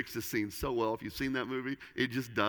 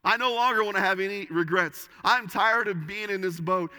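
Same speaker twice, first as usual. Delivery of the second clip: impassioned declaration; 5 semitones higher, 4 dB louder than usual. Retold or imitated. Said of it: "I believe he's saying".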